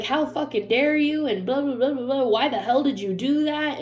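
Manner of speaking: mock accusatory tirade; imitated spewing. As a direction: mimic someone spewing indignant accusations. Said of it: "spew like that".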